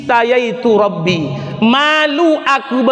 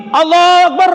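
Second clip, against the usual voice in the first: loud, high startled Allahu Akbar; mocking an overdone takbir like an electric shock; exaggerated takbir; 7 semitones higher, 5 dB louder, faster than usual. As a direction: blurt it like you just got a shock. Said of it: "kayak orang terkejut".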